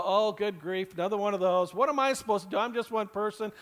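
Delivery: mildly weary mock complaint; lightly imitated exasperation; exasperated eye-roll. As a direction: voice a put-upon listener's grumble. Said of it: "roll their eyes and go".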